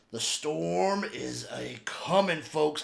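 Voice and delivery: slow ominous whisper; spooky whisper. Pretend. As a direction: whisper it like a storm warning. Ominous tease of team.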